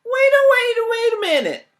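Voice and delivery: very high, loud frantic cry; very high frantic shout; cried out. Acted. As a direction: scream to stop everyone. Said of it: "cried Jack the Rat narrator".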